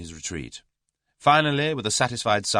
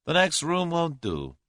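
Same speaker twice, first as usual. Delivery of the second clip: higher, slow, firm objection; interrupting; 11 semitones higher than usual. A narrator's reading. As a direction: cut in and overrule him. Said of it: "interrupted Julius".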